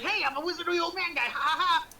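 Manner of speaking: put-on high, fast, zany old wizard; quirky crazy old man. Showing the wizard's dropped act, zany old man. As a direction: cackle along like a Willy Wonka eccentric. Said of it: "like, crazy old man, like, quirkiness".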